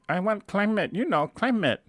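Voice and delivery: put-on high-pitched insistent mom, heavy Asian accent; mother's Asian accent. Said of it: "And she kept saying".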